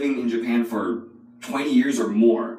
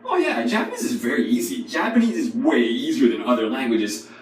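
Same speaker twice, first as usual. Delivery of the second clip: naive learner; 3 semitones higher than usual. Retold or imitated. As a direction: lightly mimic a cocky beginner. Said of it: "people who say things like".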